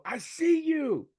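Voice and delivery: long, loud, high holler of recognition; retold yell. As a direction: holler it proudly to a player, drawn out. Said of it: "So I yell".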